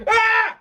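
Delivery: short, high-pitched "ah"; startled yelp. Real, not acted. Host startled by his homemade popper, sharp high yelp.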